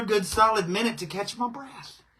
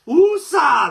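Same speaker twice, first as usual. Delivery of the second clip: calming breath; 8 semitones higher, 11 dB louder than usual. Real, not acted. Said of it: "a little woosah in my life".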